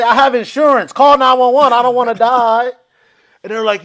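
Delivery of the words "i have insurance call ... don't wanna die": loud, high frantic plea; hammed-up panicked insistence; mock panic. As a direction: shout it in acted desperation. Retold panicked plea to comics.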